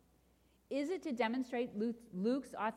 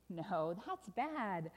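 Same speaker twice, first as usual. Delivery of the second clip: ominous correction; much slower than usual. Acted. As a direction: let the bad news sink in, slowly. Story refrain, contradicting the delight.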